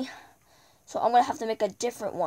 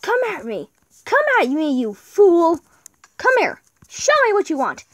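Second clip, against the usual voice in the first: taunting; 6 semitones higher, 5 dB louder than usual. Real, not acted. Taunting a mob in fight.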